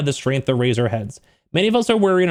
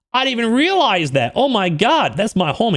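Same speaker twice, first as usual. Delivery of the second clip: higher, swooping exclamations of discovery; light up on recognizing a friend; excited realization; 6 semitones higher than usual. Retold or imitated. Recognizing my homie, excited and surprised. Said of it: "So I got excited from that".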